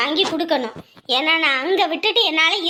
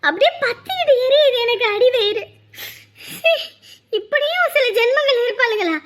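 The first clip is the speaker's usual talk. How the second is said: angry shouting; 4 semitones higher than usual. Acted. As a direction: let the rage boil over. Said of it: "கத்துறதுனால எதுவும் மாற போறதில்ல".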